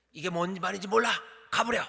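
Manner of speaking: building to a loud, high angry shout; rising fury, sending him away; angry Elijah. Shown as a demonstration. Preacher reads Elijah's reply as angry dismissal. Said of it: "엘리야가 화가 난 거죠".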